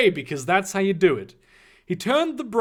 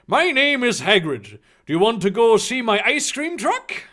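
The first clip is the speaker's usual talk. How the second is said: higher-pitched fake Irish friendliness; bad Irish accent; 4 semitones higher, 5 dB louder than usual. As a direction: play a friendly stranger in a dodgy Irish accent. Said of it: "go with this bullshit Irish accent".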